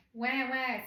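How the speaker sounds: mild mock baby wail; imitated baby scream. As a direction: imitate a baby still crying, "wah". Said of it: "still screaming".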